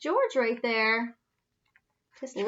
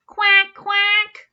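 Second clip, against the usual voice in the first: high, loud quacking; duck quack; 9 semitones higher, 7 dB louder than usual. A narrator's reading. Dog quacks.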